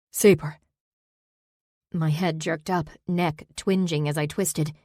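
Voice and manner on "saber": calling out. Acted. Zack calls from the mist.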